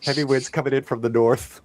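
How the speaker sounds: forecast read like a TV meteorologist; weatherman voice. Shown as a demonstration. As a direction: announce it like the evening weather. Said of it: "you gotta do like this right here".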